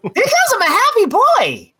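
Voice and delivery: put-on pinched little kid voice. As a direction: squeeze it into a kid's voice. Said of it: "I have a little kid voice".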